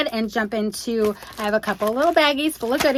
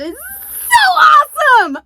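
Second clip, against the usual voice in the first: much higher, louder, slow squeal of joy; excited shriek; 12 dB louder, slower than usual. Real, not acted. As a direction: squeal it out like a thrilled fan. Thrilled by the gift.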